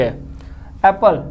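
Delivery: एप्पल drawn out slowly; slow syllable demo. Shown as a demonstration. Teacher helping students count syllables, slow careful word. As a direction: stretch एप्पल so its two syllables show. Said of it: "धीरे बोलने पे समझ में".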